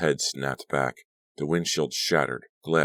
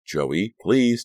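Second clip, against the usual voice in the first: high, loud pleading cry; urgent plea; 7 semitones higher, 6 dB louder than usual. A narrator's reading. Danielle begs the driving Joey, loud and pleading. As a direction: beg him sharply to stop. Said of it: "Danielle pleaded".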